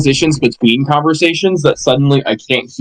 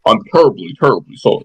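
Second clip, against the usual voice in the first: put-on posh British accent; 2 semitones lower, faster than usual. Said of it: "that's kind of the voice I imagine".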